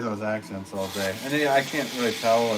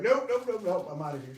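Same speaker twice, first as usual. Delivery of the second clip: fleeing viewers; 9 semitones higher than usual. Retold or imitated. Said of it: "They're like".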